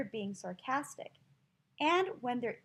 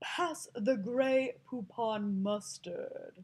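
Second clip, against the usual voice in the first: put-on posh snobby British accent, laid on thick. Speaker shows an accent people link with British snobs, snobby British accent. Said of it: "one type of accent with being a British snob".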